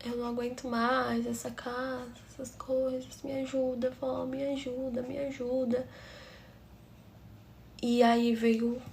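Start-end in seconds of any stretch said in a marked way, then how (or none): 0.0-5.9 a hint of a tearful plea, much softer; begging grandma for help, quietly. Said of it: "comecei a falar com a minha vozinha". (súplica baixinha e chorosa)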